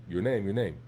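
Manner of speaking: blunt demand, "Your name, your name"; mildly rude curt demand. Shown as a demonstration. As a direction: bark "Your name" like an order. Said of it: "sorta rude a little bit".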